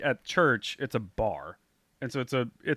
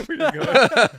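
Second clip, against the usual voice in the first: mock calling out; 14 semitones higher, 11 dB louder than usual. Mock calling after the South.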